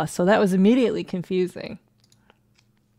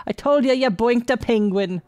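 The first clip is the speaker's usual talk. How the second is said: a gleeful leprechaun's raised voice; mild mock roar; 3 semitones higher, 4 dB louder than usual. Leprechaun teasing his friend at the punchline, mock roaring. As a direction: crow it, half roaring. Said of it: "he roared".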